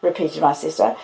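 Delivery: usual speaking voice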